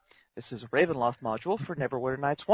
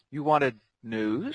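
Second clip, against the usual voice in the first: dragon voice; slower than usual. Acted. Dragon voice, host asks for news.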